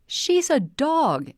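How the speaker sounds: Amy brushing off the stranger, exasperated and drawn out. A narrator's reading. Amy annoyed at pet psychic.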